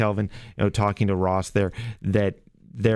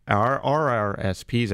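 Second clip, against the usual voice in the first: pirate voice; 3 semitones higher, slower than usual. Real, not acted. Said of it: "I sound like a pirate".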